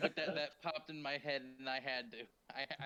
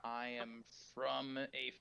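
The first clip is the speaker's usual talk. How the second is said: archaic speech. Acted. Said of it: "my outdated form of speaking".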